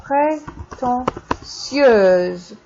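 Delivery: prétentieuse drawn out very slowly, ending clearly in -euse; slow model pronunciation. Shown as a demonstration. Teacher modeling the feminine prétentieuse slowly for students. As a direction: stretch prétentieuse out syllable by syllable. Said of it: "Prétentieux becomes".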